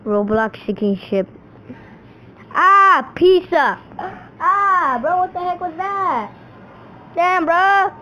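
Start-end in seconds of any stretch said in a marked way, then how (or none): 2.5-7.9 sudden high, loud outcry; startled yell. Real, not acted. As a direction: jump when something hits you. Hit by a chip, yells.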